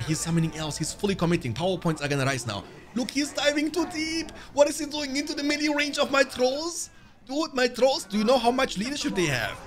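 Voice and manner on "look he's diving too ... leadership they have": pitched way up in disbelief; shocked high protest at the screen; incredulous high outcry. Real, not acted. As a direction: yelp it, can't believe he's diving in. Incredulous at enemy diving in.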